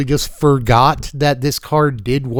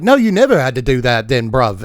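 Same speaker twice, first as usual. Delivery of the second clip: lightly hammed British bloke; mock-British reassurance, Monty Python style; casual comic British accent. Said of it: "doing the British thing".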